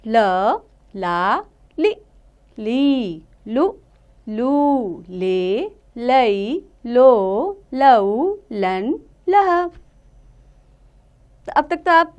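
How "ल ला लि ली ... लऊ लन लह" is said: slow, drawn-out teacher's chant of each syllable; slow syllable recitation. Shown as a demonstration. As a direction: sound out every syllable slowly for children. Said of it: "अब आगे हम पढ़ते हैं ल की मात्रा". (धीमे-धीमे अक्षरों का उच्चारण)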